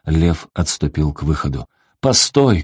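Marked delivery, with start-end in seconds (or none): 2.0-2.6 high call out; shouting after him. A narrator's reading. Father calls after his leaving son, high-pitched call. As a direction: call him back, voice jumping up. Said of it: "крикнул ему отец".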